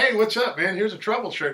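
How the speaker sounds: high, loud, breezy morning greeting; imitating Ron the morning after, all friendly; cheery Ron. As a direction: toss it out bright as if nothing happened. Ron greets him next morning.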